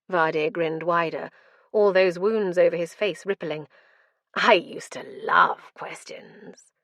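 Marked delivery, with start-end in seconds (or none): 4.3-6.7 slow mad whisper. Acted. Mad prisoner.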